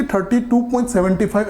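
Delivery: "Thirty two point सेवेंटी फ़ाइव" with seventy five said as one number; wrong reading again. Shown as a demonstration. Teacher repeats the reading students must avoid, "सेवेंटी फ़ाइव" as one number. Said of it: "ऐसे नहीं बोलना है".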